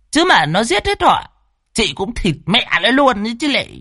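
high, bossy witch-woman barking orders; high brash sorceress commanding; fierce old woman. Acted. Lan reassures and orders.

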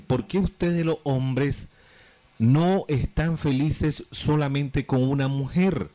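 mock upset girlfriend, drawn out; imitating the woman. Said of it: "me dice".

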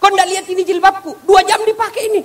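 high, loud indignant retort; indignant wife. Acted. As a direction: fire it back at him, offended. Wife snaps back about her hijab. (istri membentak dengan nada tinggi dan keras)

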